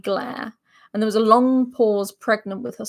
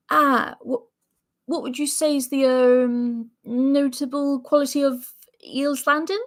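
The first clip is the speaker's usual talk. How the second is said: nervous official voice; 3 semitones higher than usual. Acted. John questions the steward.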